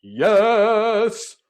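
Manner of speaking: high, loud eager yes; the body leaps at the offer; loud excited yes from the body; body shouting yes. Retold or imitated. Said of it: "my body went".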